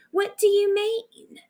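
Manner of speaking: high incredulous question; surprised question. Acted. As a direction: ask in sudden disbelief.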